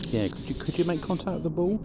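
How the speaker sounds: high, eager call to an unseen presence; calling out to spirits. Real, not acted.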